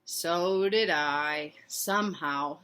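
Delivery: slow, resigned papa. Acted. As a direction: concede slowly like a resigned dad. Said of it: "said Papa".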